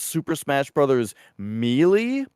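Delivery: "Melee" said as MEE-lee; MEE-lee pronunciation. Retold or imitated.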